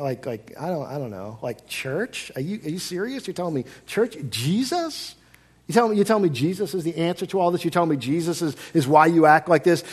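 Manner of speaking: doubtful, incredulous questioning; skeptical questioning. Acted. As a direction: ask as if you can't believe it. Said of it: "said more of a skeptical, questioning tone".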